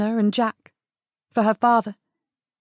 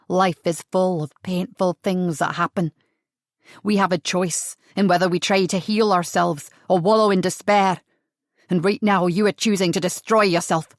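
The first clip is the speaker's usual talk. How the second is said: lower, measured and cool; terribly calm; 3 semitones lower than usual. Acted. Adam answering Sarah's outburst, terribly calm. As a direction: stay unshaken, almost cold. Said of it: "in that terribly calm voice".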